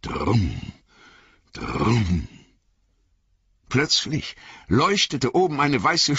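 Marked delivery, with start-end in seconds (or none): 0.0-2.3 drum sounds. A narrator's reading. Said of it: "pochten und dröhnten die Trommeln".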